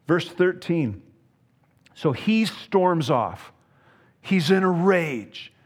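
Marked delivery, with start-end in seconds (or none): 1.9-5.5 acted rage. Preacher describing Naaman storming off.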